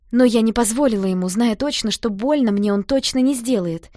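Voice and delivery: ordinary delivery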